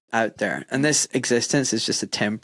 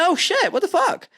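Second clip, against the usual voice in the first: retold panic. Coach runs off road in dream.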